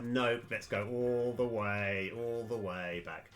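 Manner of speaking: slow, stretched-out mock resolve; drawn-out self-mockery. Gamer retelling his needless backtracking, drawn-out mock resolve. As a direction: draw out each "all the way". Mocking own past decision to backtrack.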